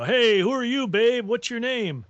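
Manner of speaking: mild mock yell, drawn-up and insistent; imitated catcall. Stranger grabbing at a woman's dress, mock catcall yell. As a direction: call out like a pushy heckler, half-yelled. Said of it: "some guy behind me yelling".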